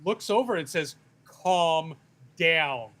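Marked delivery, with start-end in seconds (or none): 1.2-2.9 condescending calm down. Retold or imitated. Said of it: "like a man says it to a hysterical woman".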